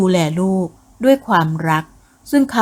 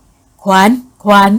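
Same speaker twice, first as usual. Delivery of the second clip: slow, louder call through a door; father calls daughter through the door, slow and loud; 6 dB louder, much slower than usual. Acted. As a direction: call her name slowly through the door.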